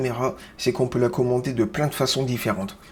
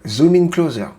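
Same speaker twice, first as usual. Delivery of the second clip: higher, louder American-accented command; 4 semitones higher, 5 dB louder than usual. Shown as a demonstration. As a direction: order the camera in an American accent. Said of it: "l'accent américain".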